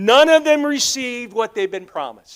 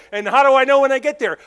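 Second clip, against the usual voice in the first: Abraham asking; 5 semitones higher, 6 dB louder, faster than usual. Retold or imitated. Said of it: "And Abraham goes".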